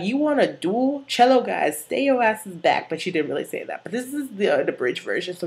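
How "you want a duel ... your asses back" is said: Santana. Acted. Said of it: "And she's like".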